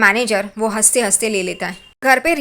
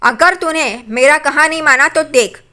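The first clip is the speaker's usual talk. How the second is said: louder, higher mock scolding of her son; imitated angry mother; 3 semitones higher, 4 dB louder than usual. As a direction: warn him off in a retold temper. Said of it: "उस पे गुस्सा हो जाती है तेजस पे". (बेटे को नकली गुस्से में ऊँची आवाज़ में डाँटना)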